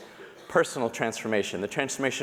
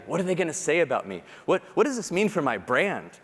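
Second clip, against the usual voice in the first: anxious inner voice; 3 semitones higher than usual. Retold or imitated. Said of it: "It's like the anxiety".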